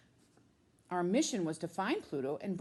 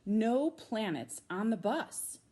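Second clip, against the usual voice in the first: shouted; 4 semitones higher, slower than usual. Acted.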